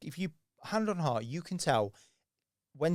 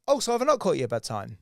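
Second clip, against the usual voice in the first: mock surprise; 6 dB louder, faster than usual. Shown as a demonstration. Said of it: "I'm like".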